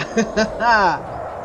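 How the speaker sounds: playful villain chuckle; menacing laugh. Pretend. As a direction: laugh like a hungry predator. Predator laugh at raptors. (risada de vilão brincalhão)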